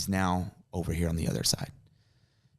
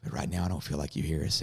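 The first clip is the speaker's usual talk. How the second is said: low, subdued private prayer; understated, earnest pleading; retold prayer; 4 semitones lower, 3 dB quieter than usual. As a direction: confide a doubt to God. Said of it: "And I'm praying".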